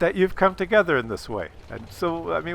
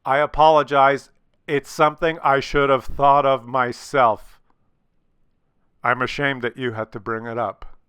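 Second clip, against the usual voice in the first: sincere apology; 3 semitones lower than usual. Shown as a demonstration. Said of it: "close with re-apologizing".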